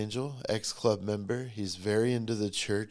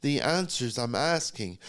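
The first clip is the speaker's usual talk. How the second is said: cussing out God; 4 semitones higher than usual. Retold or imitated. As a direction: start hurt, end yelling up at God. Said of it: "cussing God out".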